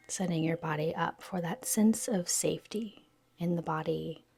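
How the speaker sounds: soft, unhurried yoga nidra guidance; guided meditation. Real, not acted. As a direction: gently lead them into stillness, pausing between phrases.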